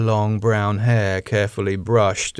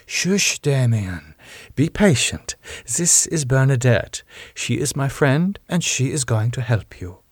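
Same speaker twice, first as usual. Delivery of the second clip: put-on lightly accented, higher-pitched hushing; soothing Rose; 4 semitones higher than usual. Rose calming Damien before he feeds, soothing. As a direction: hush him and reassure patiently.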